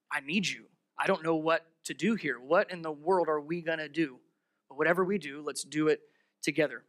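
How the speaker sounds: quiet pleading servant. Acted. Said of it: "He says".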